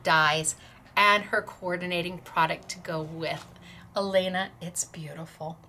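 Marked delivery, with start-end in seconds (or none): 4.0-5.6 hushed, near-whispered praise; moved, voice dropping away to almost nothing; emotional. Real, not acted. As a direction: praise her very softly, overcome. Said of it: "getting so emotional".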